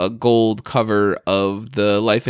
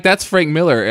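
mock accusation; 5 semitones higher than usual. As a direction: call him out playfully. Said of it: "I'm like".

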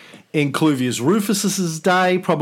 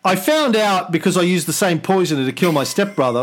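higher, flustered emperor, stifling a laugh; grand speech slipping into a laugh; roman orator; 6 semitones higher than usual. Acted. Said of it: "Senate and the people of Rome".

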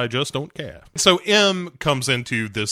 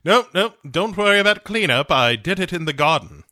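put-on higher, quick breezy old lady; grand dame; 4 semitones higher, faster than usual. Answering the co-host in a mock grande dame voice. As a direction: brush it off merrily in a lady voice. Voicing Judi Dench reassuring.

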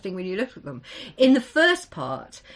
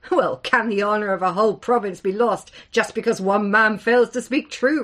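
louder retort laced with scorn; scornful; 6 dB louder than usual. Acted. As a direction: throw the question back with contempt. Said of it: "scorn streaking his voice".

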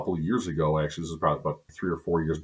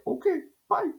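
quick breezy goodbye. Retold or imitated. Hastily leaving cop after dismissal.

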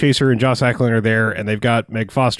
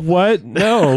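higher-pitched incredulous refusal; mock disbelief; 5 semitones higher than usual. Negotiators react to the kidnapper's demand, mock disbelief. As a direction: balk at an absurd demand.

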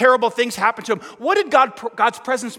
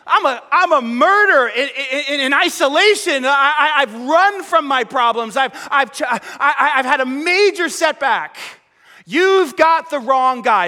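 voiced Moses, higher and louder, protesting; Moses pleading; 5 semitones higher, 3 dB louder than usual. Preacher voicing Moses protesting to God, higher pitched pleading. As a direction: plead like a reluctant man denying he's a leader.

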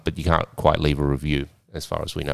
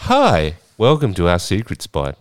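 lightly voiced induction-video presenter; mock tutorial host; 3 dB louder than usual. Host greeting club newcomers in a pretend tutorial video, lightly presenter-like. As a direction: welcome viewers like a training video. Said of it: "they show you this little video".

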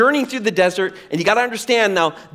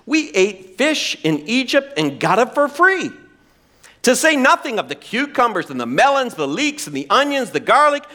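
whiny complaint; 4 semitones higher than usual. Acted. Acting out Israelites' whining complaint.

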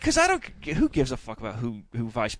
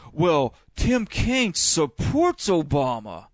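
mocking ad voice; 2 semitones higher, much slower than usual. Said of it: "they're like".

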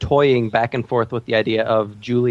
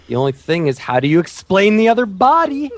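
quoting through laughter; 7 semitones higher, 4 dB louder than usual. Retold or imitated. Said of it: "How about when Sean and Gus are".

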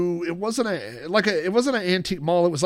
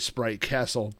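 computerized voice; 4 semitones lower, 4 dB quieter than usual. Retold or imitated. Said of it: "It's like a computerized voice".

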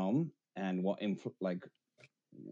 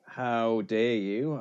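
slow, drawn-out mock indignation; mock offence; much slower than usual. Welshman jokingly objects to being called English, mock affronted. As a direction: play insulted, spacing out each word.

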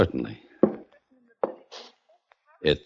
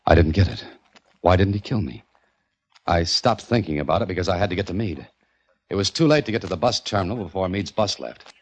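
detective narration. A narrator's reading. Private eye narrates his search for Meade, noir storytelling. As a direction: tell it like a tired private eye.

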